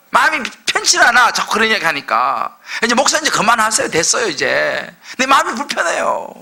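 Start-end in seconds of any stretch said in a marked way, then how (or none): 2.8-6.3 mock discomfort. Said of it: "라고 말하는".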